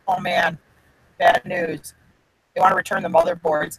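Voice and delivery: mock-grave bad news, half whispered; fake serious. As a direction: play it dead serious to fool him. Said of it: "try to look real serious".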